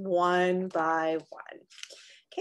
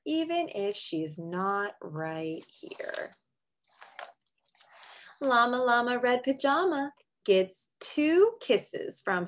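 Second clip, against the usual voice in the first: slow, tender close, fading to sleep; soothing bedtime read; slower than usual. Acted. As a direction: lull them gently toward sleep. Reads a picture book aloud.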